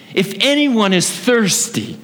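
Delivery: high, slow proclamation; mild retold cry out. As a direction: call out over a noisy crowd, pitch lifted. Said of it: "he yells out and he speaks in a loud voice".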